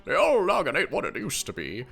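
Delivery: lightly voiced old man; a hint of a creaky elder. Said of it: "I gotta use my old man voice".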